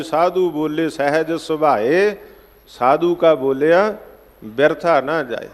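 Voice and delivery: drawn-out, measured chant of the verse; slow recited Gurbani; slow scripture recitation. Acted. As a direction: intone the verse slowly. Recites scripture line in katha.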